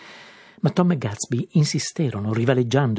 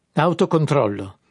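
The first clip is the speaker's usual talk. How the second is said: slow, louder, higher disbelieving echo; incredulous; 4 semitones higher, 6 dB louder than usual. A narrator's reading. Tom echoing Daisy's word, incredulous. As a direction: throw the word back in disbelief. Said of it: "ripeté Tom incredulo".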